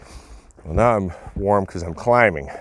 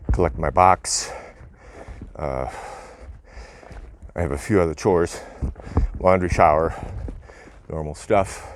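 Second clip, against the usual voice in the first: out of breath. Real, not acted. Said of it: "Sorry for the huffing and puffing".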